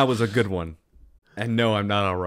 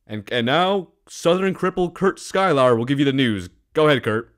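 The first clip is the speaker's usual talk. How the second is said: mock news host; 4 semitones higher than usual. Mock news host handing over.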